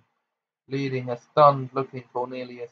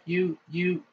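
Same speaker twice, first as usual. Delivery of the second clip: faltering; 5 semitones higher, 4 dB quieter than usual. Acted. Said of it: "his voice faltered".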